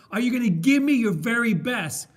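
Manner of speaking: loud, insistent coach's question; demanding coach. Retold or imitated. Film coach retold, pressing his player loudly. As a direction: press the player hard for an answer.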